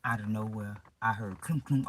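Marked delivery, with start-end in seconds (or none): 1.4-1.9 loud, sudden "clunk, clunk"; imitated clunking noise. Drifting out of consciousness, hearing loud clunking noise. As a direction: punch out each clunk like a bang. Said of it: "a lot of noise".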